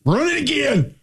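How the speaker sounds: high-pitched coach yelp with a Southern twang; mock Southern coach calling out a redo; offensive line coach. Co-host joining the coach bit, hammed-up Southern coach impersonation. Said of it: "impersonate offensive line coaches".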